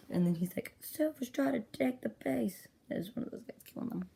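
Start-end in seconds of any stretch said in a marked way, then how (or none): 0.8-2.7 higher, drawn-out character voice; slow, raised mock complaint; acted villain line. Villain gripes about the base attack, acted complaint.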